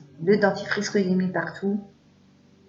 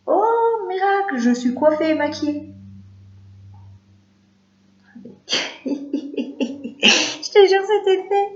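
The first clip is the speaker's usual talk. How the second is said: mock amazement; 10 semitones higher, slower than usual. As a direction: play it like a magic trick. Mock amazement at instant makeover.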